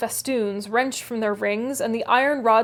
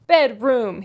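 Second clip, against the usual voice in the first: louder scornful echo of the word; a touch of Yorkshire mockery; mocking echo; 5 dB louder than usual. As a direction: throw the word back mockingly. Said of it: "he repeated in a tone of mockery".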